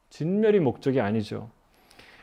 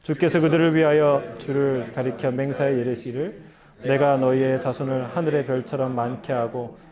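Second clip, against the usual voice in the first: even, level-toned Bible reading; scripture reading. A narrator's reading. Pastor reading the Bible passage to the congregation, evenly recited. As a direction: read the passage aloud in a steady monotone.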